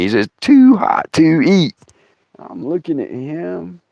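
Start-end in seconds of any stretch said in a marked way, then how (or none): 0.4-1.7 slow, spaced-out words; mock mouthing, voiced. Storyteller repeats what Dave mouthed, slowly and aloud. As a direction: voice it slowly, as if for a lip reader. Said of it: "He just mouths it to me".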